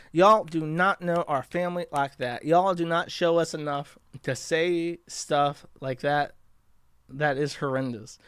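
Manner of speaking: sassy attempt at a Black American accent; half-hearted Black girl accent, drawing out Y'ALL. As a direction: try a Black girl accent, not convincingly. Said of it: "can I do a black girl accent".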